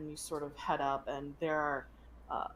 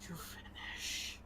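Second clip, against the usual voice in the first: dying dragon whisper; 6 dB quieter than usual. Acted. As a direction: whisper through blood and pain. Dying dragon whispers last words.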